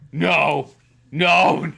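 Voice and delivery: building loud no's; mock Palpatine. Kid rejecting Slippy's gender, mock Palpatine wail. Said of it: "You go full on Palpatine".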